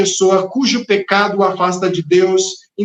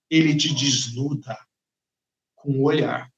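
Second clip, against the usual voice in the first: low, soft hushed preaching; 5 semitones lower, 6 dB quieter than usual. Real, not acted. Preacher hushing the congregation on being seen, softly. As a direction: drop the voice to a near hush.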